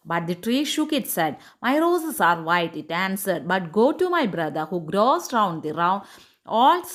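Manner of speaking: slow, measured English read-aloud; story reading. A narrator's reading. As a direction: read the tale slowly, phrase by phrase. (സാവധാനം കഥ വായിക്കുന്നു)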